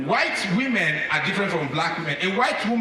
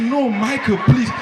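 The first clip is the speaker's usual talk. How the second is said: put-on higher pleading girly voice; coy protest, raised pitch; talking like a woman; 8 semitones higher, 4 dB louder, slower than usual. Pulled back by Michael, pleading like a woman. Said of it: "I started talking like a woman".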